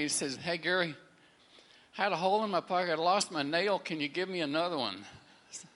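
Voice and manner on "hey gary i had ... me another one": urgent plea. Retold or imitated. Friend calls asking for new nail.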